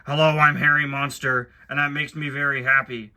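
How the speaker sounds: lightly voiced gentle monster, barely changed from own voice; Harry impression. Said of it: "Can I do a Harry impression?".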